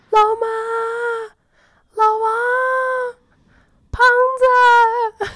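long high yells calling out names into the night; shouting names. Retold or imitated. Lost in the freezing estate calling for her friends, loud high yells. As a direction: call out across the estate, high and stretched. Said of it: "我就开始狂喊".

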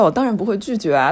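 ordinary delivery

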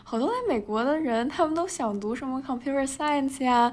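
teasing imitation of a nosy officer; the customs officer. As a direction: ham up a puzzled officer who can't believe it, laughing through it. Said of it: "他说".

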